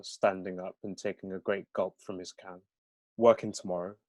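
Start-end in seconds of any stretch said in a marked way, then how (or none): 3.2-4.0 understated Brummie remark; Brummie accent. Acted. Fraser excusing himself for the night, in Brummie accent. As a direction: say it in a light Birmingham accent. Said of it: "aren't familiar with the Brahmi accent".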